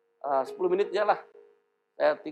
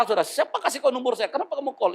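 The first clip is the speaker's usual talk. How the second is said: put-on old angry reply; 7 semitones higher than usual. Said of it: "kalau dulu saya marah".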